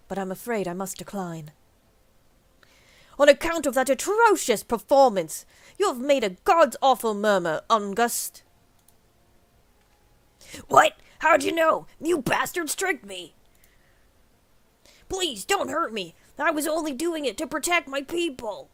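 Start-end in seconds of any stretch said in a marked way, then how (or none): 3.2-8.4 loud, higher triumphant call-out; hammed-up gotcha accusation; accusing reveal. Thancred unmasks the priest. 10.7-18.7 higher, pleading cry; hammed-up panicked begging; panicked villain. Caught priest panics.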